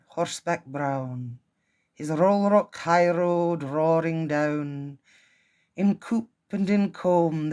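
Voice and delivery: a light, half-hearted Scottish lilt on the poem; terrible Scottish accent. Acted. Reading Inversnaid to her audience in a self-mocking Scottish accent. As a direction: read it in a mild Scottish accent. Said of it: "terrible Scottish accent".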